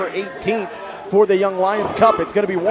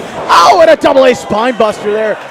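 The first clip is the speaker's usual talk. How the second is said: wrestling commentator; 3 semitones higher, 6 dB louder than usual. Real, not acted. Big move in the ring.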